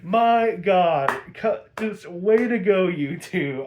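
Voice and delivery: loud, high, thrilled outburst; excited cheer. Retold or imitated. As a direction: cheer them on loudly. Own excited reaction quote.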